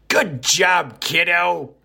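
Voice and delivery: high, hammed-up old-timer cheer; older folks' praise. Host congratulating a listener like older folks, hammed-up cheer. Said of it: "as us older folks say".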